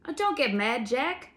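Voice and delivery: soothing. A narrator's reading. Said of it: "the sentry answered soothingly".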